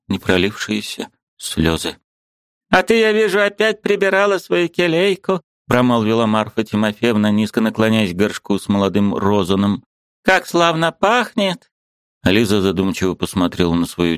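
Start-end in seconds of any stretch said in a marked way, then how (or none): 2.7-5.4 put-on high, fond old woman's voice; a doting old aunt teasing gently. A narrator's reading. Old aunt Marfa gently teasing her niece, high fond voice. 10.2-11.7 put-on high, fond old woman's voice; a doting old aunt teasing gently. A narrator's reading. Old aunt Marfa gently teasing her niece, high fond voice.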